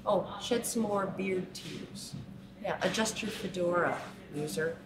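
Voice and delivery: lightly hammed-up jeer; mocking sneer. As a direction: mimic a gloating taunt. Parodying taunts aimed at men.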